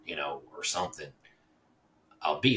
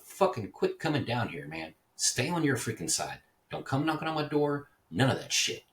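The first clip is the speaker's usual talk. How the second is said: louder, higher, fed-up scolding; retold angry telling-off; 8 semitones higher, 4 dB louder than usual. Man ordering neighbor to stay on his side, angry and loud. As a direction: tell him off to stay away.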